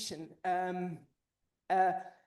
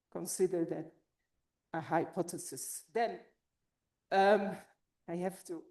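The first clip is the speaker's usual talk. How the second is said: out of breath; 3 semitones lower than usual. Real, not acted. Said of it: "I'm out of breath".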